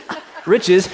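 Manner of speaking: laughing dismissive ah, riches; playful scoff at riches. Shown as a demonstration. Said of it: "ladies, you can go".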